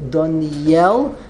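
"Doniel" with the Y sounded before "el"; proper pronunciation. Shown as a demonstration. Teacher restates the proper name, "Doniel" stressed on the Yud. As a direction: land on the final "yel" in "Doniel". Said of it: "proper pronunciation is the Yud".

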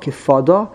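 Kifada with the emphasis at the front of the word; stress on first syllable. Shown as a demonstration. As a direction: lean on the start of Kifada, not the last syllable. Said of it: "The emphasis is on the beginning of the word".

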